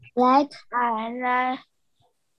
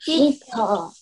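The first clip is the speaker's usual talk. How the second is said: group repeating after leader. Real, not acted. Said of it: "everyone repeat after me".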